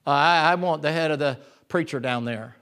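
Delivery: low, forced acted demand; through gritted teeth. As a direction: act it out as if coached through clenched teeth. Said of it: "grits her teeth and says".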